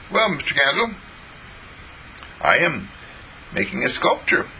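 put-on high childish reply; young John explaining, pitched high; little boy voice. John answers in story.

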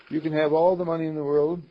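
loud, ringing emphasis on all; a preacher driving home a point; emphatic declaration. Real, not acted. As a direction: proclaim it to the room.

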